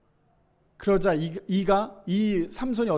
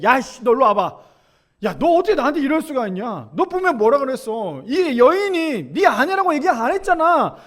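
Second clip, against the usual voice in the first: a mildly raised voice, slowing at the end; a hurt ruler calling Abraham out, not yet a yell; upset, wronged pharaoh; 4 semitones higher than usual. Acted. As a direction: scold Abraham as the cheated pharaoh. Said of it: "너무나 속상해서 너무나 억울해서".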